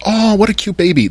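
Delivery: high cooing mock bartender voice. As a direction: gush over the baby in a high voice. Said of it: "She looks at the baby and goes".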